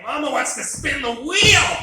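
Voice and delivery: high, loud, slow gushing cry; mock the wife squealing over the game show; excited wife. Husband imitates wife thrilled by Wheel of Fortune, high and loud. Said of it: "She's like".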